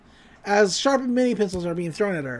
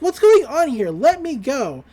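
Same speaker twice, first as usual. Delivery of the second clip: mildly raised, higher-pitched protest; mock scream; 4 semitones higher, 4 dB louder than usual. Pacifica tied up at the windmill, mock scream. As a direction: retell a captive's yell without really screaming. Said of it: "Pacifica screams".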